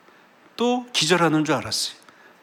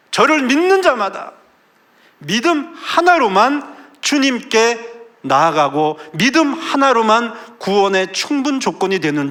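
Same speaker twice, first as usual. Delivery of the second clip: 천천히 힘주어 크게 선포; 열정적으로 외치는 설교; fervent preaching; 8 semitones higher, 7 dB louder than usual. Real, not acted. Climactic preaching. (힘찬 설교 목소리)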